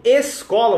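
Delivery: escola with a clear E at the start, e-SKO-la; Brazilian escola. Shown as a demonstration. Teacher showing students the habit of saying escola, spelled out. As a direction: say escola the Portuguese way, opening on E. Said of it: "você falou escola sua vida toda".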